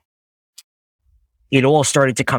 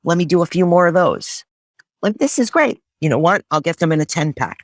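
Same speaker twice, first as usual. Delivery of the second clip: eager excitement; 7 semitones higher than usual. Retold or imitated. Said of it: "I was like".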